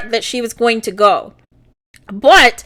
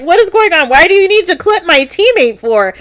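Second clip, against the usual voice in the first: mock indignant, higher-pitched questioning; retold baffled protest; 5 semitones higher than usual. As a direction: demand an explanation in a lightly acted, higher voice. Voices Ezekiel's confused protest.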